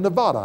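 "Nevada" with a broad AH in the middle; outsider's Nevada. Retold or imitated. Newcomer telling locals where he lives, broad-a Nevada. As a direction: say "Nevada" as ne-VAH-da. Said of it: "you're a foreigner".

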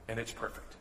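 repeating the promise to the congregation, almost inaudibly softly; hushed, dropped almost to nothing. Shown as a demonstration. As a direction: softly, let the words sink in. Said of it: "refrain repeated, dropped to near silence".

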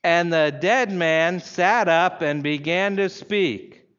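slow, emphatic reading aloud; strong, deliberate weight on every word; each word out loud. Shown as a demonstration. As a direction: lead a congregation in unison, word by word. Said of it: "say each word out loud".

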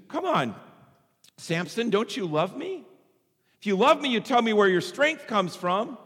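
high-pitched wheedling plea; coaxing Delilah. Acted. Delilah working on Samson for his secret, wheedling. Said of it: "are like Delilah".

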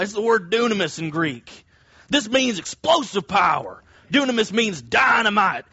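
hyped preacher, rising to a shout on dynamite; mock-excited evangelical preacher; evangelical umbrella man voice. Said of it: "put on my evangelical umbrella man voice here".

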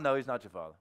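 low, offhand rebuttal; imitated deadpan denial; dismissive contradiction. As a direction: shut it down in a dropped voice. Acted curt contradiction.

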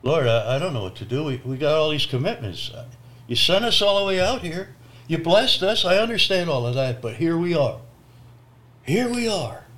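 rising, urgent plea to God; pleading prayer. Retold or imitated. Stranded preacher praying at the truck stop, pleading and rising. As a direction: beg the Lord for help. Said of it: "We just start praying".

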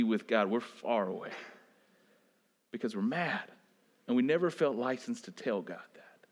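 low, soft, almost whispered sermon; hushed preaching. Acted. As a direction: draw them in with a hush.

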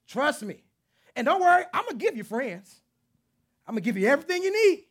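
God answering the heart, loud and playful. Acted. God's reply, loud high.

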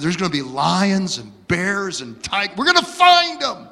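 put-on a kid hyping up a jungle adventure; excited kid. Little brother talked into a safari, eager and excited. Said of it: "And I said".

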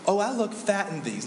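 lightly voiced self-pitying fisher for compliments; fishing for compliment. Compliment-seeker dropping hints to friends, mock self-pity. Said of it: "who's always fishing for a compliment".

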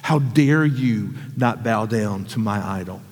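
a hint of a wounded tyrant demanding how dare you; mock angry king. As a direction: voice the offended king without shouting. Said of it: "that's what makes him so angry".

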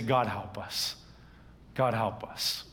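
low, subdued appeal to God; earnest plea. Acted. Preacher models praying to God instead of complaining, earnest plea. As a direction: drop the pitch into a heartfelt prayer. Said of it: "cry to him".

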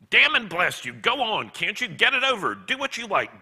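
loud, high exasperated bellow. A narrator's reading. Ghost giving in to the angel's request, bellowing. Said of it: "bellowed the ghost".

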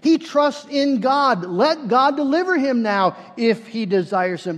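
preacher voicing the mockers; mocking. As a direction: throw it out as a scornful dare. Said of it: "the elders mocked him, saying".

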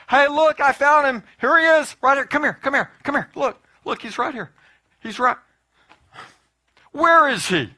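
high, loud, eager calls of a seeker; excited calling out. Retold or imitated. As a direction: call out like a kid who found someone hiding. Playful seeker in heaven game.

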